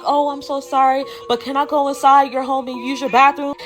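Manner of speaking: apologetic, imitated sweet lady; sweet lady in distress. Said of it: "like, some sweet old lady in distress".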